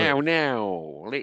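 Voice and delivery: lightly mocked Cockney accent; drawn-out fake Cockney vowels; a hint of bad stage Cockney; Dick Van Dyke. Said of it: "Was it slightly Dick Van Dyke?".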